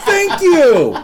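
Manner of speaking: emphatic thanks. Real, not acted. Host thanking co-host for agreeing, emphatic and vindicated.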